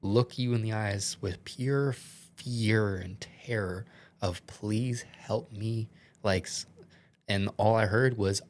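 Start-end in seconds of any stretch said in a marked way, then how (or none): 0.0-5.9 slow, whispered, choked with emotion; emotional. Real, not acted. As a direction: barely get the words out, very slow and hushed. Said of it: "I'm sorry if I get a little emotional".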